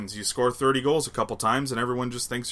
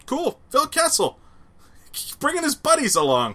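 excited; 13 semitones higher than usual. Real, not acted. Excited about a signing.

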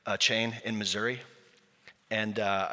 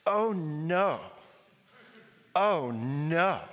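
put-on high, small child's dismayed oh no; childlike sing-song oh no; toddler's oh no; 4 semitones higher, much slower than usual. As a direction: imitate a little boy's worried cry. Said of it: "he has one phrase, and it is".

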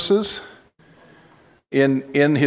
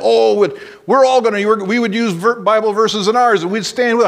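raised, mildly indignant imitation of fellow pastors; mock their huffy indignation, pitched higher; 5 semitones higher than usual. Imitating the pastors at the ministerium, a touch indignant. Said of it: "they were all so mad".

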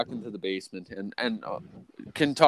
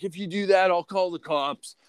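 mock boss warning; 7 semitones higher than usual. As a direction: imitate the boss's smug threat. Boss threatening to call police.

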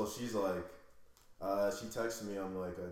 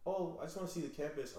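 higher, mock innocent girl voice; imitating the girl; 7 semitones higher, 3 dB quieter than usual. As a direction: put on her higher-pitched excuse. Voices girl who follows him.

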